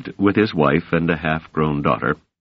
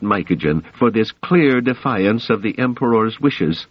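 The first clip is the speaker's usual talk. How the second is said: higher, displeased and angry emperor; angry ruler scolding his minister; enraged emperor; 6 semitones higher than usual. A narrator's reading. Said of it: "He was clearly enraged".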